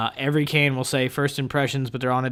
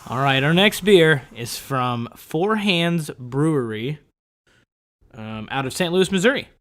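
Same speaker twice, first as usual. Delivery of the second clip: customer service voice. Real, not acted. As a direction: sound like you answer a support line. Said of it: "My customer service voice".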